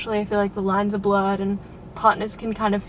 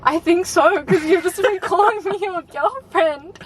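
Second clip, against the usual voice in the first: retold answer; 9 semitones higher, 3 dB louder than usual. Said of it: "And I was like".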